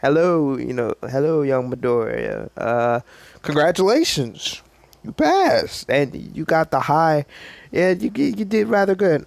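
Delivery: All Might voice. Retold or imitated. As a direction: boom out a big heroic greeting. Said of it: "All Might was like".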